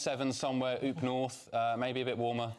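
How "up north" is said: broad northern English vowels; northern accent. Pretend. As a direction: say it with a Yorkshire oop. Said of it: "that's my, uh, my northern accent".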